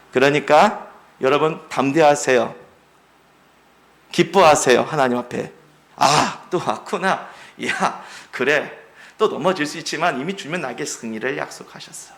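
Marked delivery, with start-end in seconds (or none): 6.0-12.1 calm self-talk. Acted. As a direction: shrug off the trial calmly.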